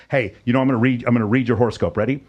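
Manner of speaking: lightly hammed-up fortune teller pitch; a hint of a mystic reading your stars; mystical horoscope reading. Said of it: "this is probably what happened with you".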